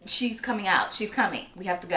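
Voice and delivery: insistent wake-up call; urgent. Retold or imitated. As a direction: push him to move now. Urging husband to hurry.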